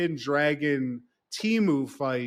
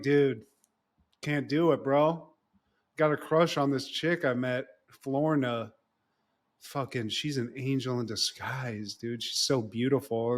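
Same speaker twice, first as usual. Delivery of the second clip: dreamy lovesick; 5 semitones lower, 6 dB quieter than usual. Retold or imitated. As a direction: lower and softer, lovesick bro. Jack confessing his crush dreamily.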